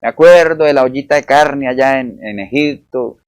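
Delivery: mock complaining. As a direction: imitate the people moaning. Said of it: "ahora estaban quejándose que". (queja nostálgica fingida)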